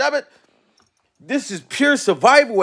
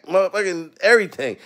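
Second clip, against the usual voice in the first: ordinary talk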